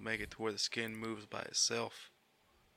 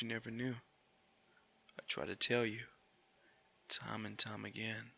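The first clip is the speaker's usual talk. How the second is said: whisper; 6 dB quieter than usual. Pretend. Whispered love confession.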